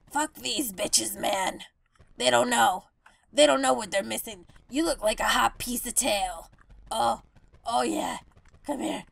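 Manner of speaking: lightly voiced seagull shrugging off rejection; jaded seagull. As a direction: mutter like a spurned bird.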